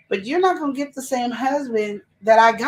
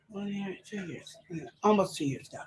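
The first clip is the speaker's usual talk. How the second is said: muttering to self; 2 semitones lower, 11 dB quieter than usual. Real, not acted. Wife working out how long ago it was, muttering to herself. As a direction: count it up under your breath.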